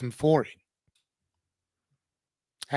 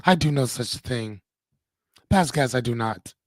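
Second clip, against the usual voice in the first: put-on lower-pitched, lightly Russian-accented denial; a touch of Russian mother, pitched down; Anya's mom's Russian voice; 4 semitones lower than usual. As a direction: deny it in a mild Russian accent. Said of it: "in my Anya's mom Russian voice".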